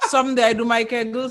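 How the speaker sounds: laughing. Real, not acted. Joking about kegels, laughing.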